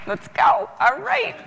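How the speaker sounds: high excited self-pep; excited cheer. Retold or imitated. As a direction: pump yourself up, high and bright. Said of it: "I'm like".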